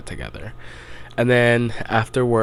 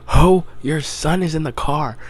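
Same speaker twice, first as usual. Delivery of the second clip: higher, louder urgent call to the dad; like yelling at a movie character; urgent warning; 6 semitones higher, 4 dB louder than usual. Retold or imitated. Yelling at the screen.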